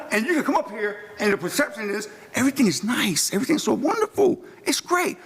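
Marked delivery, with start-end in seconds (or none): 2.3-5.2 sarcastic, higher sing-song praise; mock the too-rosy picture; syrupy mock praise, pitched up. Mocking the church's rosy image.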